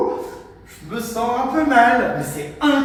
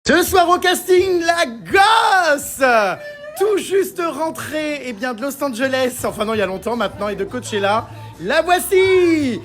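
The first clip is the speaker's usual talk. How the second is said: mock casting host. Host presenting friends at a party, grand showbiz announcement. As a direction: stretch it out like a reality-TV host calling the next star.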